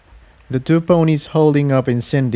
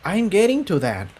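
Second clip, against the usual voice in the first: reassuring; 8 semitones higher than usual. Acted. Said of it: "Cerulean assured".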